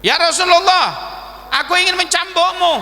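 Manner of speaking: acted defiant announcement; bold challenge. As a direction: call out the demand boldly. Companion openly challenges the Prophet.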